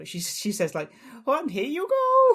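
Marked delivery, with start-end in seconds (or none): 1.3-2.3 bad comedian voice, very high, slow, stretched out. Describing a comedian's voice in a running app: terrible Sarah Millican impression. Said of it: "that's a terrible impression of Sarah Millican".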